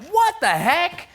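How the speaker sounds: high, loud, drawn-out outburst; mock astonishment. Improv coach showing a hands-in-the-air story moment, mock astonished. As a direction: cry it out slowly in hammed-up disbelief. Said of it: "a moment of".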